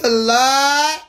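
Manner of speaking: high, loud exclamation mid-laugh; laughing cry. Real, not acted. Streamer overwhelmed by the chat, laughing loud. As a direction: call out to the Lord through laughter.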